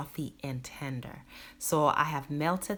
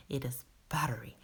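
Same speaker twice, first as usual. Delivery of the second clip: whispered buttery; 3 semitones lower, 5 dB quieter, faster than usual. Real, not acted. Savoring the finished omelet.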